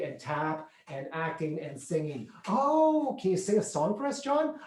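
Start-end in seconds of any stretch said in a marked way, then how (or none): 2.5-4.6 high, eager plea for a song; imitating the parents asking for a song; teasing parents. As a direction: egg the kid on playfully. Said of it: "parents ask him to sing".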